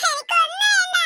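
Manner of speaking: put-on tearful child insisting she wants nothing; a stubborn child's crying no; crying refusal. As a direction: sob out the refusal.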